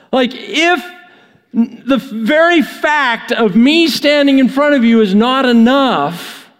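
the angel scolds Zechariah for his lame excuse, exasperated. Pretend. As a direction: play the fed-up angel, disbelieving. Exasperated angel voiced by preacher.

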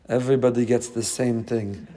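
put-on low-pitched Russian accent. Flight attendant answering a passenger's request for Coke, in a Russian accent. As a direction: imitate a Russian woman's accented speech. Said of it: "in her Russian accent".

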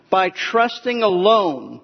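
slow, weighty stress on "alone". Real, not acted. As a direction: lean hard on "alone", drawing it out slowly. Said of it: "and I emphasize the word alone".

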